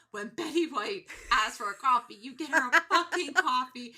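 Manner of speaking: hammed-up angry old lady losing it; mock furious Betty. Betty scolding Ryan about coffee, mock furious outburst. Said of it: "she's just like".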